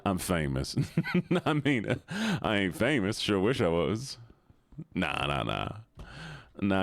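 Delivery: put-on Southern accent for fun. Streamer honouring a viewer's redeem, playful Southern accent. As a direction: lay on a playful Southern twang. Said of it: "We're gonna do the Southern".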